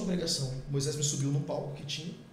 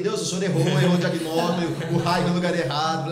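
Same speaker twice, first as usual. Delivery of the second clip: louder, half-joking protest; mock complaint; 8 dB louder than usual. Man protesting to God about the wrong target, louder mock complaint. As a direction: throw up your hands at God, loudly.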